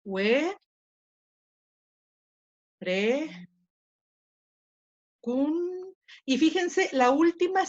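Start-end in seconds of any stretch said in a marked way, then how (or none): 0.0-5.9 "Hue, re, cun" with long pauses between syllables. Shown as a demonstration. Teacher splitting verecundia for the class, syllable by syllable. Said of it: "Y separo".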